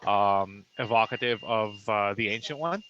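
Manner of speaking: glitchy robotic phone audio; choppy robot voice from a bad connection. Real, not acted. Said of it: "sorry for the robot voice".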